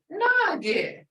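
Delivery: put-on teaching a child the word; Muskogee word. Shown as a demonstration. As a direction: say Nagi to the child. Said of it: "And I'll say".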